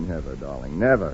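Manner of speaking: low, soft murmured vow; tender promise. Acted. Husband promising his wife, low tender murmur.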